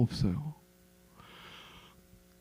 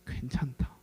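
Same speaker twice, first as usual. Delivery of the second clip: whispered comfort; 4 semitones lower, 13 dB quieter than usual. Acted. God's gentle reassurance.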